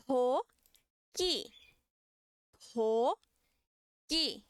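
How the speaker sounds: "To" puffed with air, "ki" tight and dry; aspirated then tense. Shown as a demonstration. Teacher contrasts aspirated and tense for class, aspirated then tense. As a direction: breathe out on the first syllable, clamp the second. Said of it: "na primeira eu aspiro e na segunda eu duplico".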